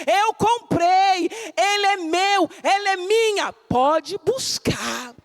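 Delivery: high, slow, tender claim of ownership; Jesus claiming us. Acted. Preacher voicing Jesus claiming the fallen, high and slow. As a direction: speak it as a loving owner. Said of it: "e disse".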